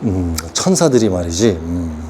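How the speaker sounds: low, soft evasive reply; a mock wise teacher dodging the question; hesitant guru answer. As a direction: stall with a low hum. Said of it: "이렇게 말한다고".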